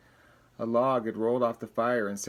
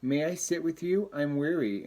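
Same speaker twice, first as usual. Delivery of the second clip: tender turtle voice; 4 semitones higher than usual. Acted. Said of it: "And the turtle said".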